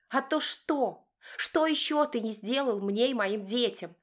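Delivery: high, whispery furious wife; wife shouting back. Acted. Wife shouting back at husband, high and bitter. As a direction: hiss it back at him as the wife. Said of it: "кричит в ответ".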